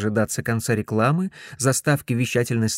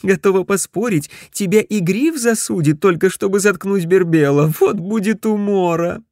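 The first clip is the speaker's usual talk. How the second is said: amused operator; 7 semitones higher, 6 dB louder than usual. Acted. Dorothea amused by Ted.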